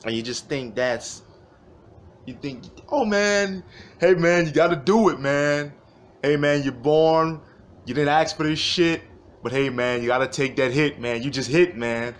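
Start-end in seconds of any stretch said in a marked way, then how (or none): 2.9-12.1 mock pep talk. Mocking a macho pep talk.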